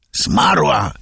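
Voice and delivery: high, falling cry of shock. A narrator's reading. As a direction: cry it out in disbelief. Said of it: "krzyknął Kmicic".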